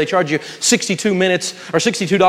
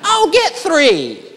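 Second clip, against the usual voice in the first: much higher, slow, gushing mock voice; shopping buddy; 11 semitones higher, 3 dB louder, much slower than usual. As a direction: egg your friend on to buy more, hammed-up. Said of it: "You don't use your shopping buddy".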